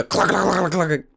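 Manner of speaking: rapid rattling clack of a crashing bike; imitated clacking. Friend telling how the bike crashed, imitated clatter.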